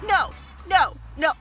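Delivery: imitating a defiant toddler, high and shouted; mock terrible-twos yell; toddler shouting no. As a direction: shout it like a two-year-old refusing. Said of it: "because they're like".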